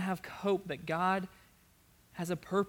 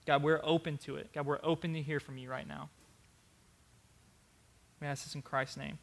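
earnest, pleading prayer voice. Acted. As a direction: lead the church in heartfelt prayer. Leads the congregation in prayer.

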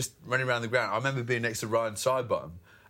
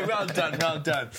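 lightly voiced genteel cricket spectator, pitched up; politely applaud from the stand, a little high; quaint polite applauder; 3 semitones higher than usual. Commentator mimics his usually quaint home crowd, lightly voiced politeness. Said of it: "normally, you know, the most quaint".

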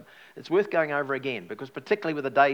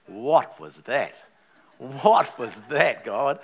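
stunned; 6 dB louder, much slower than usual. Retold or imitated. Reenacting his stunned reaction to silence.

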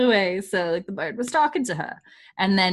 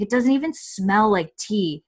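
louder, indignant recap of a complaint; mock offended; 4 semitones higher, 7 dB louder than usual. Husband disgusted by tea bags, mock offended. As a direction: act affronted, with laughter creeping in at the end. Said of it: "very offended by tea bags".

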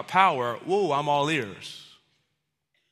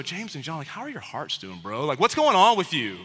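gentle mock concern. Imagined caring talk to brothers.

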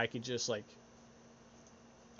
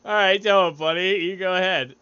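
loud, raised-pitch playful go-ahead; mock encouragement; 6 semitones higher, 7 dB louder than usual. Host answers his imagined servant friend, loudly encouraging. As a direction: cheer a buddy on, acted. Acts own reply to obedient friend.

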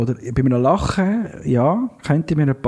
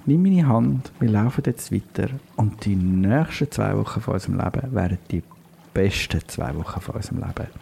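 guided visualisation; 3 semitones lower than usual. Pretend. Host guiding listeners to the lake, guided meditation. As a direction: lead listeners gently to the lake.

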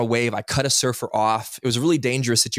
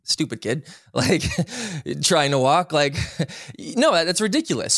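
scornful jeer broken up by laughter; mocking laugh; 4 semitones higher than usual. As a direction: sneer at the kid while laughing at him. Mocking a toddler who falls.

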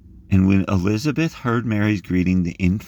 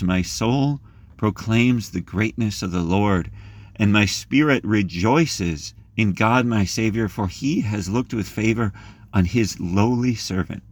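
prayerful reading; 2 semitones higher than usual. Acted. Preacher reading Mary's Magnificat to the group, reverent. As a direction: read it like a prayer, unhurried.

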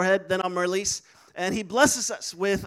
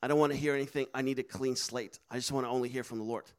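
hushed prophet; 7 semitones lower, 6 dB quieter, faster than usual. Retold or imitated. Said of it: "he says".

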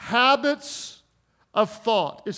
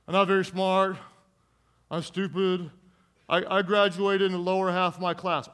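negative attitude; 2 semitones lower than usual. Acted. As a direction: act out someone a little down on themselves. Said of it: "That's a different attitude".

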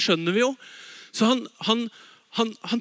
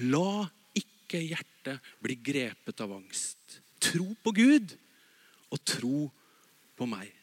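gentle Jesus quote; 5 semitones lower, slower than usual. Retold or imitated. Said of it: "Allikevel så sier Jesus".

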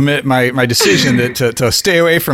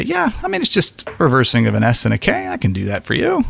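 accommodating concession. Pretend. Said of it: "assimilate a little bit and say".

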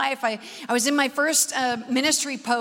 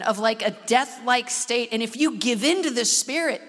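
mild solemn voice of God; God's voice; 3 semitones lower than usual. Retold or imitated. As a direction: pronounce the interpretation gravely. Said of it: "He says".

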